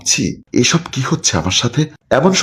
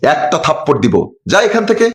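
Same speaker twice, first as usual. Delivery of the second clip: scolding mother; 4 semitones higher than usual. Acted. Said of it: "ধমক দিয়ে বলল".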